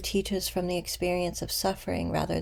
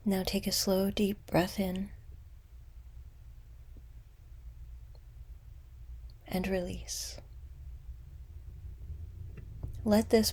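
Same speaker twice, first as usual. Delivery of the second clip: unhurried meditation guide, long pauses between phrases; guided meditation; 4 dB quieter than usual. Acted. Guide leading listeners to meet an old wound with compassion, guided meditation. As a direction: guide them gently inward, letting phrases settle.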